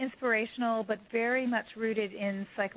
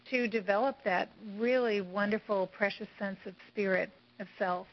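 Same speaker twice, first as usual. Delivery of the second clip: hoarse voice giving out; strained, fading raspy voice; losing voice. Real, not acted. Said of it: "I'm losing my voice".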